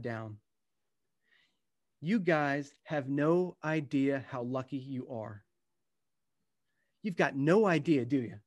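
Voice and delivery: unhurried storytelling read to an audience; gentle book-reading voice; reading from his book. Acted. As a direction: read it like a memoir passage, letting moments land. Reads aloud from his book.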